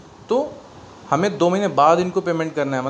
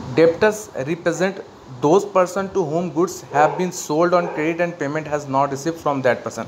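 slow dictation; much slower than usual. Acted. Teacher dictating a definition to the class, slowly.

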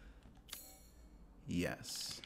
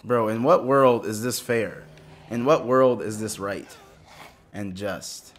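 indignant; 5 dB louder than usual. Real, not acted. Complaining about an unfair enemy.

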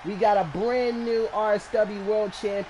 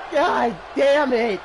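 frustrated curse; 3 semitones higher, 4 dB louder, slower than usual. Real, not acted. Frustrated loss in a match.

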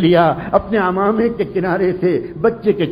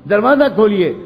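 calling louder through a shut door; 3 semitones higher than usual. Acted. Boy calls to his mother at the locked door, loud call. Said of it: "زور سے اس نے پھر آواز دی".

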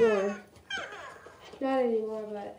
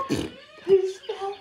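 laughing; 5 semitones higher, much slower than usual. Real, not acted. Laughing after falling.

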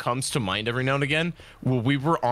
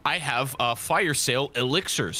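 crypto bro. Pretend. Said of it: "why did you sound like a crypto bro".

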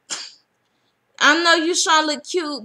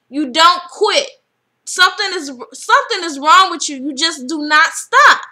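mock angry lecture; 4 dB louder than usual. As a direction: imitate Renee scolding Natalie hard. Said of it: "talking to Natalie like".

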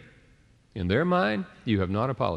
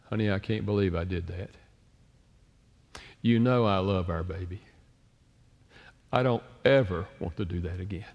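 sincere apology; 2 semitones lower than usual. Retold or imitated. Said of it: "I sensed he was so sincere".

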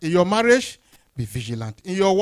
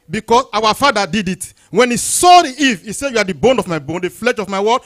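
raised, emphatic sermon voice; forceful preaching; 4 semitones higher, 8 dB louder than usual. Acted. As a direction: drive the point home to the congregation.

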